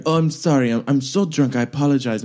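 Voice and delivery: apologetic, lightly fake French accent. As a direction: apologize as an American mimicking French-accented English. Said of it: "it was like my French accent now".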